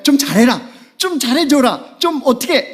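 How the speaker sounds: high Gyeongsang pleading, slowing; lifted Gyeongsang 좀 pleas; Gyeongsang dialect. Shown as a demonstration. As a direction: nag in Gyeongsang style. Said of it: "이게 다 그 경상도 압축말이에요".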